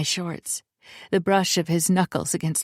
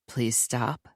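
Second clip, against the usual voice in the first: quiet, lowered begging; soft plea; 6 semitones lower, 6 dB quieter than usual. A narrator's reading. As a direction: beg him softly.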